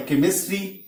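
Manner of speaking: केमिस्ट्री begun with a K sound. Shown as a demonstration. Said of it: "फिर क हो गया".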